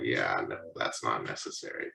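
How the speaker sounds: low, soft, awkward deflection; underplayed teenage brush-off; evasive reply. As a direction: back out quietly of a parent's demand. Deflecting his parent, retold.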